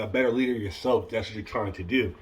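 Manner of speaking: talking with retainers in; speaking around dental retainers. Real, not acted. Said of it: "Sorry, I got my retainers in".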